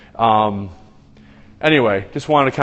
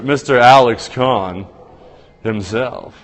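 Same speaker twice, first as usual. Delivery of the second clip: drawn-out announcer call of the name; announcer intro; 4 dB louder, slower than usual. Pretend. Host hyping a guest to stream viewers, mild announcer call. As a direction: introduce him like a ring announcer, slowly. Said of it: "did you like that?".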